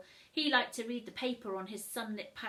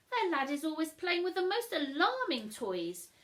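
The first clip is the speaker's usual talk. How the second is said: loud, higher snooty parents; disapproving parents; 4 semitones higher, 5 dB louder than usual. Acted. Mum and Dad warning Tilda, lightly voiced disapproval. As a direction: sniff at the new neighbours.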